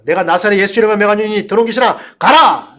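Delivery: imitating a desperate exorcism yell; loud command exploding on the last word; retold shout. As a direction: re-enact the shouted rebuke. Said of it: "소리를 질렀다는 겁니다".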